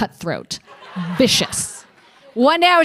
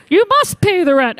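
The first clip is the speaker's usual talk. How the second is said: cartoon villain; 3 semitones higher, 4 dB louder than usual. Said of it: "you're in a cartoon with this bag".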